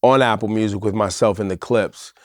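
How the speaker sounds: polished, measured adult promo voice; grown-up radio promo read. Real, not acted. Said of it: "Can you take off your adult voice".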